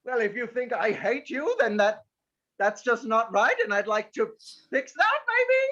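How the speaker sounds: every sentence ends on a rising question; obnoxious upward inflection. Acted. Player under the rule, ending sentences with an obnoxious upward inflection. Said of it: "end every sentence in an obnoxious upward inflection".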